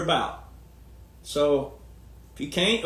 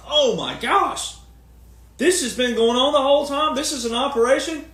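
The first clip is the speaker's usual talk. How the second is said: imitated shocked realization; 7 semitones higher than usual. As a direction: act out stunned listeners catching on. Acting out audience's shocked realization.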